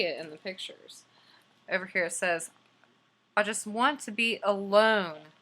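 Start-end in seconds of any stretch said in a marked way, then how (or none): 3.4-5.3 louder, slow, emphatic bear line; a hint of a weary bear; fed-up bear. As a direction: let the bear plead to be left alone. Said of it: "Again with the larger word".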